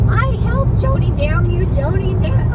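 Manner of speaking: mom's high laughing scold at the bottom of the slide; imitating mom. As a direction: play mom scolding her daughter after the slide. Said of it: "from screaming and laughing and saying".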